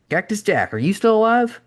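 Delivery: high-pitched, perfunctory quick greeting. A narrator's reading. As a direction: toss off a greeting, pitch climbing on the question. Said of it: "with less than full enthusiasm".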